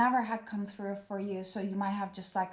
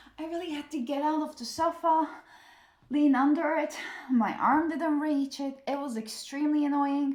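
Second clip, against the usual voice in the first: slightly winded, out of breath, raised and high; 6 semitones higher, 5 dB louder than usual. Back after reaching under the sofa for the Emperor card, speaking a bit out of breath. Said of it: "I'm a bit out of breath".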